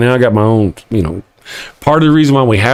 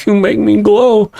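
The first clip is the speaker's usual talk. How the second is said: laughing fondly at his coffee; 8 semitones higher than usual. Acted. Talking to his coffee, laughing and doting. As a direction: chuckle it out slowly, doting.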